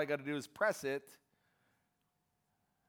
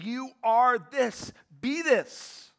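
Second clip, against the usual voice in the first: slow, much louder and higher, each word hammered; emphatic command; 8 semitones higher, 8 dB louder, much slower than usual. Retold or imitated. Jesus commanding his followers, slow loud emphatic declaration. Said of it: "Jesus emphatically saying".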